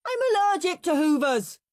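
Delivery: put-on high, loud childish whine; Henry's whiny voice. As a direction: protest like a spoilt kid.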